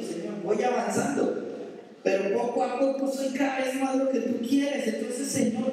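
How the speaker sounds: a hurt believer asking God why he sleeps; complaining believer. Acted.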